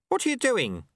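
high-pitched alarmed question. Acted. Sweeper alarmed at apprentice's move, alarmed. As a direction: demand an explanation.

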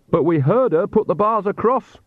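Nanny wailing at the open door. Acted. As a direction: wail it in dismay. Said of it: "wailed Nanny".

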